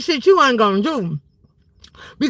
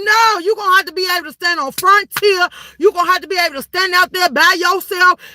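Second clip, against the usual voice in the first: fired-up rallying; 3 semitones higher than usual. Real, not acted. Fired-up challenge to viewers.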